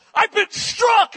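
high, drawn-out stunned yell; imitated scream. Preacher imitating the man hit by God's power, screaming. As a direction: scream it out as if just hit, slowly stretched. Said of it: "he screams this out".

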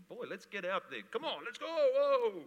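high, rising rally cry; rallying excitement. Real, not acted. Preacher rallying his congregation, excited cry. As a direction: rouse the army to charge. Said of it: "We've got a mighty army here".

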